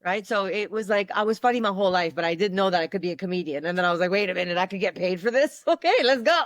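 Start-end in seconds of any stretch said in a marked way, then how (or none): 4.1-6.4 excited realization. Retold or imitated. Self realizing she could get paid.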